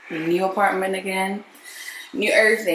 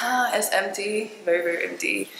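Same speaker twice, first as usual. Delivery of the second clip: echoing empty room; 5 dB quieter than usual. Real, not acted. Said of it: "It's so echoey".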